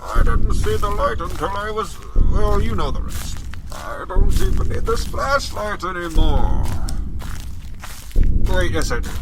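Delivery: lightly voiced Bane, menacing villain playing a horror game; a hint of Bane's masked menace; Bane impression. Gamer voicing Bane while wandering the woods, lightly menacing. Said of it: "Calm down, Bane".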